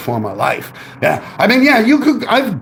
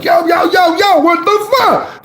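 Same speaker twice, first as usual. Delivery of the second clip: retold yell; 12 semitones higher, slower than usual. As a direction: shout a warning at a driver swerving at you. Yelling at a swerving car.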